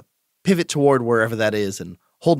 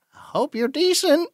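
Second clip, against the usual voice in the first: high, slow sing-out; cautious call; slower than usual. Acted. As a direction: call slowly through the door, pitched high. Calls through door being pushed open.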